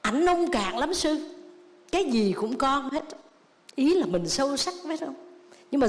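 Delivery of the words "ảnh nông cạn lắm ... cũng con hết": higher, slow scolding wife; mock the wife griping to the monk; slow, higher-pitched imitation of a nagging wife; wife's complaint. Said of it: "người vợ hay nói".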